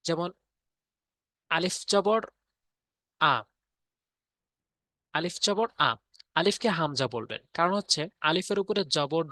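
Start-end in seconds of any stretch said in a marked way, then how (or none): 1.5-3.3 আ said alone as a clear "aa" after a pause; pronunciation demo. Shown as a demonstration. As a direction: spell out আলিফ জবর, then sound আ as an open "aa". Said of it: "যেমন জবরতে হচ্ছে আকার".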